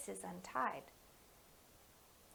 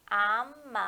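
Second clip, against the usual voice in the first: slowly; 7 dB louder, much faster than usual. Shown as a demonstration. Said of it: "so I'm gonna say it slowly".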